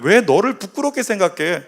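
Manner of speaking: earnest reassurance, rising high on the denial; lightly voiced Jesus comforting someone ashamed; reassuring Jesus. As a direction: insist gently, then settle down. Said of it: "우리 예수님은 이렇게 말씀하시는 거예요".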